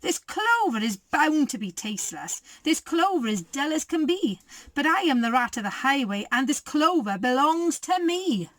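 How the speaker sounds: lightly voiced bossy rat; ordering rat. The rat orders the rabbit to hand over clover. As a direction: demand it like a bully. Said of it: "he ordered".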